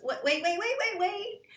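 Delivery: hammed-up baffled wait; puzzled stop. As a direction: halt in mock disbelief. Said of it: "Your brain goes".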